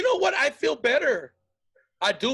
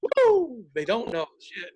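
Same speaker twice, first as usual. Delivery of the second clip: relieved whoop; 3 dB louder, much slower than usual. Retold or imitated. Worker leaving the office unpunished, whooping in relief. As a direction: cheer like you got away with it. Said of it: "I'm like".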